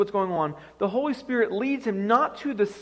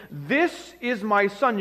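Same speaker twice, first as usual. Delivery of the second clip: slow, drawn-out divine announcement; lightly voiced God, each word stretched; slower than usual. Preacher replays the voice the crowd hears, slow lightly voiced God. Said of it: "You hear this voice saying".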